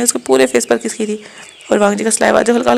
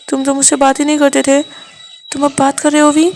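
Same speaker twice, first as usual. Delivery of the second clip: hurt lover, raised pitch, a little louder; Wang ji's voice; 3 semitones higher, 3 dB louder than usual. Acted. Wang ji amazed that Wing is talking to him, pleading. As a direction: ask it half-accusing, half-hopeful.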